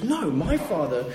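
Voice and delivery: high, slow wondering voice; lightly voiced son in awe; son's realization. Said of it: "he goes".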